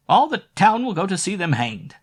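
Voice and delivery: put-on high, loud gloating old woman; gleeful cry. A narrator's reading. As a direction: crow it out with spiteful glee. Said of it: "cried Mother Gretel".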